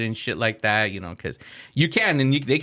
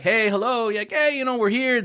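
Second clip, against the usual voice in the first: higher, coaxing sing-song wake-up call; calling out gently; 9 semitones higher than usual. Retold or imitated. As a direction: try to wake a passed-out rider. Waking passed-out passenger.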